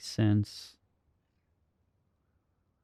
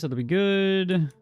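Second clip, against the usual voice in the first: higher, louder, slow and drawn out; pleased; 9 semitones higher, 5 dB louder, slower than usual. Real, not acted. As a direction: savour it, very pleased. Satisfied remark.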